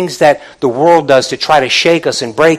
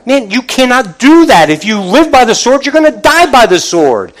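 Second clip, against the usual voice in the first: mock rebuke; 5 semitones higher than usual. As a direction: scold him like a teacher. Jesus rebukes disciple, preacher voicing.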